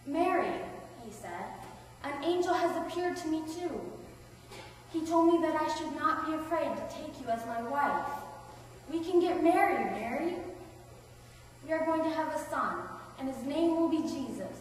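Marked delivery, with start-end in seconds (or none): 0.0-0.6 high, loud call of the name; excited Joseph calling. Acted. Joseph runs in with news. 2.0-14.6 higher voice, eagerly retelling good news; excited Joseph. Acted.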